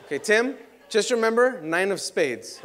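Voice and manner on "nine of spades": slow, drawn-out card name; slow deadpan reveal. Acted. Magician to Tim, naming his secret card, slow deadpan. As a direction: spell it out slowly, faking innocence.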